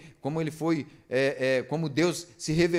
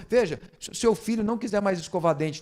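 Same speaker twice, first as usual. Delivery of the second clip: usual speaking voice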